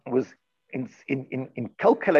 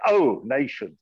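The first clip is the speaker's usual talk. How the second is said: mock formal; slower than usual. Shown as a demonstration. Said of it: "You say".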